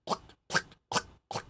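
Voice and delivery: whispered plunger plucks; imitating the plunger noise from the stall; plunger sound. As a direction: mimic a toilet plunger softly. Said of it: "it sounded like a plunger".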